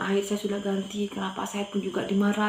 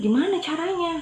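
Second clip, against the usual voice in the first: higher-pitched, mildly eager asking; retold curious question; 9 semitones higher, 4 dB louder than usual. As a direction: ask how, lifting the pitch. Retold eager question about the job.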